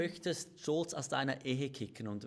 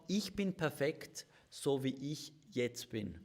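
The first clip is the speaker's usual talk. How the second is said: proud self-satisfaction. Acted. Speaker quotes pride to the audience, slow and self-assured. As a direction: voice pride, deliberate and spaced out. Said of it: "der Stolz sagt".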